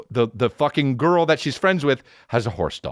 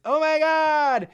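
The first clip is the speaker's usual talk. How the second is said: put-on much higher, giddy girly voice; tipsy girlfriend; slower than usual. Imitating his tipsy girlfriend greeting him, high and giddy. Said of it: "she goes like this".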